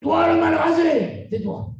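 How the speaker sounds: loud, slow mocking call-out, then a drop; teacher's jibe. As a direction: bark the jibe at the class. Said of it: "le prof lui a dit". (professeur qui lance la moquerie fort et lentement)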